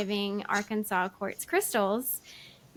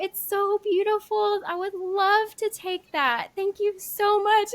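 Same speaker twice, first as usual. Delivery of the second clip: gracious thanks; 8 semitones higher, 3 dB louder than usual. Retold or imitated. Retold kind idol accepting gift.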